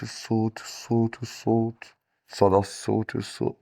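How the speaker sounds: playful echo demo for the class, repeats trailing off; echo effect. Shown as a demonstration. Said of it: "Echo يعني صدى الصوت".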